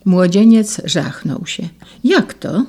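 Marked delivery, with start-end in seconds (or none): 2.0-2.6 exclaimed. A narrator's reading. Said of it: "zawołał".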